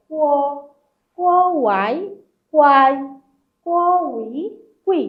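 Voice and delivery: "ক" held alone, then the final, then both joined, as in "ক, আও, কাও"; blending syllables. Shown as a demonstration. Teacher demonstrating Chinese syllable combinations, sounded out step by step. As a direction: drill each set with pauses, ending on the blend like "কোয়াই". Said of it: "সিলেবলগুলা বলতেছি".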